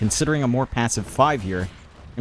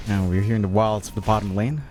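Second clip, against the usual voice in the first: hushed wildlife documentary narrator; lightly voiced Attenborough-style narration; nature documentary; 4 semitones lower than usual. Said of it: "You have to work on the accent a little bit".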